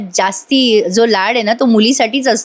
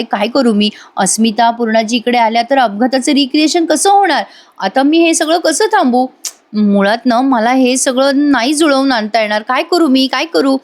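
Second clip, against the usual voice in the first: acted anxious thinking aloud; mild panic, pitch climbing midway; worried fretting; 3 semitones higher than usual. Sayali unsure how to stop visitors, fretting.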